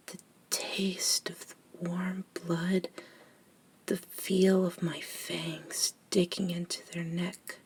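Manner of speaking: softly, lingering over the words; hushed confession. Acted. Vampire admits enjoying the feeding to a nervous fledgling, hushed confession.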